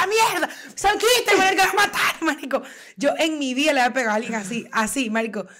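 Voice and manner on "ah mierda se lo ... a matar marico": high furious yelling, reliving the fight; a frenzied shriek while being pulled off a friend; reenacted rage yell. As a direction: scream it like you've lost control. Retelling her own drunken fight rage.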